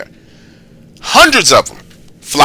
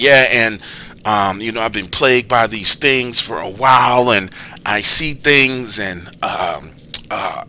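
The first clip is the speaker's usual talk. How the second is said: halting, lightly voiced psycho; a hint of creepy killer, hesitant; creepy caller voice. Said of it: "that's the type of fucking voice this dude's got".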